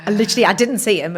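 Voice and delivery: telling it through laughter; laughing. Real, not acted. Confessing to friends she never saw him, laughing. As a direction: laugh as you admit it.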